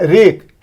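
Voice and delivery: रेक said with no W, starting on R; silent W demo. Shown as a demonstration. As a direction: say रेक straight from the R. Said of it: "डब्ल्यू को pronounce नहीं ना कर रहे हैं".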